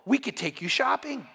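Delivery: mock-fawn like catty girls now sucking up; lightly voiced gushing court ladies. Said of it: "the other girls say".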